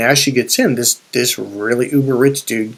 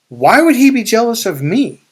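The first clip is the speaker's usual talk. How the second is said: pitched high and louder, genuinely baffled; high, louder retold disbelief at being envied; 8 semitones higher, 4 dB louder than usual. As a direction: ask it like it makes no sense at all. Retold baffled question to goddaughter.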